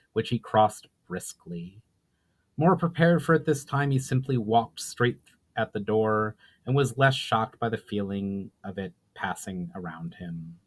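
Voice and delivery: even, measured storyteller's read; story narration. A narrator's reading. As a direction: tell the tale steadily to listeners.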